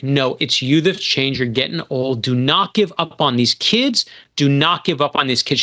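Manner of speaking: mildly impassioned plea to the troops; rousing speech. Retold or imitated. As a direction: imitate a teacher's stirring battle-cry farewell, without shouting. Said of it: "She gives a speech like the end of Braveheart".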